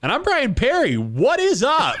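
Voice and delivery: high, loud, booming-host greeting; land development voice. Pretend. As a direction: belt out an over-the-top host intro. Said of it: "using my land development voice".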